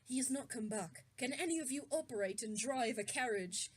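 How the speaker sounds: story narration. A narrator's reading. Reading fan fiction aloud to friends, low narration. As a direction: read the story out evenly and low.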